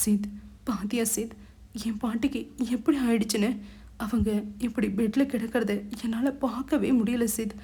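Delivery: a touch of put-on sobbing, pleading; mild mock tears, playing innocent; fake crying. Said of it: "விம்மி விம்மி அழுது நாடகமாடத்". (போலியான விம்மல் அழுகை)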